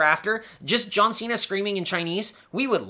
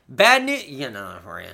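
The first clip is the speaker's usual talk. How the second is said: mock booker voice; 4 semitones lower, faster than usual. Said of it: "a guy who's like".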